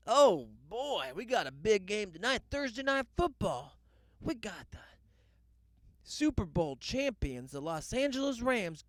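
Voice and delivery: playful game-night announcer voice; mock sportscaster hype. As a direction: sell the matchup like a TV promo. Hyping tonight's game like a broadcaster.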